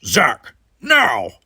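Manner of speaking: loud call, rising on now. A narrator's reading. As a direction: call the order across the room. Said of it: "Worf called to the Brickar".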